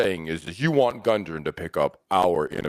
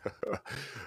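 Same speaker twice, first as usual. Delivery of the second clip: short, soft breathy chuckle; 14 dB quieter than usual. Acted. Tyrion leans forward to tease the lady rogue, chuckling. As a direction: chuckle quietly before speaking. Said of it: "chuckling, and goes".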